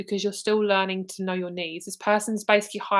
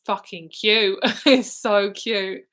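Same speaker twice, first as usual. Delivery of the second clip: gushing with a laugh; 5 dB louder, much slower than usual. Real, not acted. Gushing over spirit baby.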